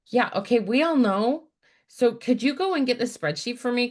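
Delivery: imitating boss. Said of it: "she's like".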